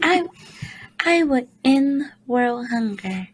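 sit up straight and give the crown-winning answer; poised pageant answer, posture fixed. Pretend. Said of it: "You gotta have your back straight when you say that".

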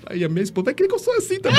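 high, fast, laughing through it; giggling joke about his wife. Real, not acted. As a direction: laugh the words out. Joking about vows, laughing.

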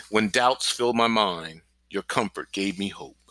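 slow, measured recitation of a psalm; slow verse recitation. Shown as a demonstration. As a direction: recite it slowly, word by word. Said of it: "Pronounce the word clearly and slowly".

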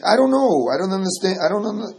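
put-on an old sage throwing up his hands, I don't know; baffled Ramban quote. Teacher quoting the Ramban to a student, mock baffled. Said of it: "the way that he says it is".

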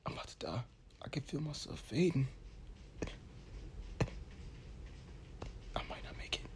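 whispered, fading last words; overacted death scene. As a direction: whisper as if slipping away.

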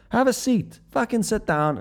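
high-pitched, eager invite; acted pub regular waving someone over; welcoming invitation. Pub strangers invite newcomer to join.

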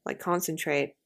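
conversational general American; generic American accent. Shown as a demonstration. Host telling co-host about concentrating, in American accent. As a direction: keep chatting in an American accent. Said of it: "talk in my Generican".

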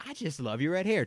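put-on high, sweet old-lady voice; doting old lady. Customer repeats her red hair compliment, high sweet gush. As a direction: gush it like a granny. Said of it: "she's just like".

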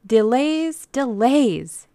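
high, loud lament; exasperated complaint. A narrator's reading. Old ladies fed up with waiting, loudly exasperated. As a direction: wail the word out in complaint.

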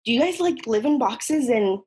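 high, sing-song ignorant classmate voice; high-pitched mock schoolgirl; mocking a clueless girl. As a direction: mimic a naive girl asking a dumb question. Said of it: "She was like".

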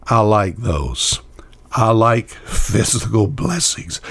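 confiding whisper. Real, not acted. Confiding aside about physical blessings.

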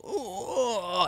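high, soft waking-up stretch sound; a lazy morning-stretch "ooh"; stretching groan. Retold or imitated. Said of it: "I did a big stretch".

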